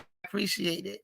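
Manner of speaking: quiet sincere thanks; soft repeat. Real, not acted. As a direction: say it again almost under your breath. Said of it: "I appreciate it repeated".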